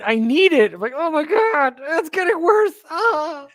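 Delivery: high-pitched fan squeal; giddy, high, mounting desperation; overexcited craving. Real, not acted. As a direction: plead and swoon over it in a high voice. Gushing over the wrestling feud.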